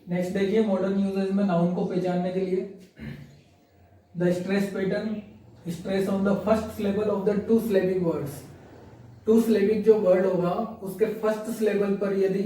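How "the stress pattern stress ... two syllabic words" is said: very slow, every word separate; slow dictation. Shown as a demonstration. Teacher reading the stress rule to the class, slowly. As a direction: read the rule at dictation speed. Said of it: "teacher reads rule slowly".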